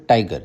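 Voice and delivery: "tiger" with a firm first syllable, second one falling away; "tiger", front-stressed with a falling end. Shown as a demonstration. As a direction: lean on the "ti" of "tiger", ease off "ger". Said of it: "टाई को हम लोग तेजी से बोलते हैं".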